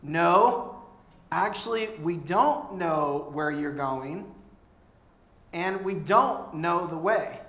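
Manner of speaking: loud, blunt objection as Thomas; doubting Thomas objecting. Retold or imitated. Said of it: "And Thomas goes".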